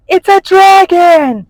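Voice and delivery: high, loud panicked scream of a guilty robber; terrified scream. A narrator's reading. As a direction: shriek it out in sudden fright. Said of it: "screamed the robber in a guilty voice".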